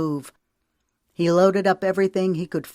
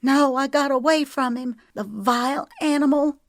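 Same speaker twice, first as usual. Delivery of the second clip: hissing; 10 semitones higher, 4 dB louder than usual. A narrator's reading. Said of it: "she hissed".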